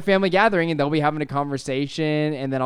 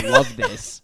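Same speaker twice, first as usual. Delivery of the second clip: laughing. Real, not acted. Laughing at the dice bidet.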